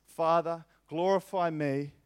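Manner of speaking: loud, slow pleading to the Father; preacher voicing Jesus' loud prayer; impassioned prayer. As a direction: plead "Make known my worth" slowly. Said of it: "his prayer to the Father is".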